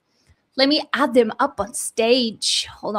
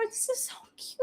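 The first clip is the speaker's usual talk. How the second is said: much higher, breathy whisper; whispered gush; 11 semitones higher, 15 dB quieter, faster than usual. Real, not acted. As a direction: whisper it, overcome by cuteness. Gushing over puppy.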